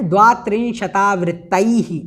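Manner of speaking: द्वात्रिंशतावृत्तैः said syllable by syllable, ending in a breathy echo of ai; careful pronunciation. Shown as a demonstration. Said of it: "इस प्रकार से इसको बोलना है".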